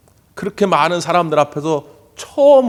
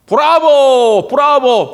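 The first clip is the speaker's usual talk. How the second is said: put-on high, loud, drawn-out child's cheer; a boy yelling bravo at his dad's debut; child shouting bravo; 8 semitones higher, 5 dB louder, much slower than usual. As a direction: cheer like a little boy in the crowd. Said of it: "막 소리를 질러요".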